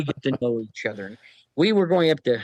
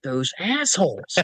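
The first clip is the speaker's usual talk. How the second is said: slow, laughing mock curse; 3 semitones higher, slower than usual. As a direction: groan the insult through laughter. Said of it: "I thought".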